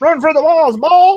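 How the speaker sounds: loud, high-pitched yelling. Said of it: "I yell at Balls to run through the wall".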